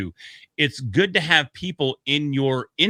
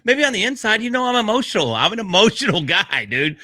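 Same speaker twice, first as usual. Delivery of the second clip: laughing confession; 9 semitones higher than usual. Real, not acted. Joking about being emotional.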